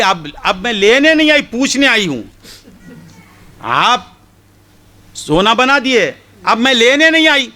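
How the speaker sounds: high, quick, insistent protest; insistent woman. Retold or imitated. Woman insisting to the saint she only came to ask. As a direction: make clear she only wants an answer.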